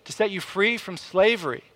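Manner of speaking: retold knee-jerk objection; indignant reaction. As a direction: object as if correcting a complaint. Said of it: "I see that and kinda react".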